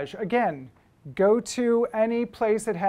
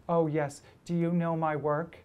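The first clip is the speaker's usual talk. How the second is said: lightly imitated classic Jewish New Yorker voice; a hint of lovely old-school Jewish New York accent; 2 semitones lower than usual. Older photographer greets an admirer, lightly imitated Jewish New Yorker. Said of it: "great, uh, classic, lovely Jewish New Yorker voice".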